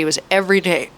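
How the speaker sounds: burp while speaking; a small burp mid-sentence. Real, not acted. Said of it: "Sorry, not me burping".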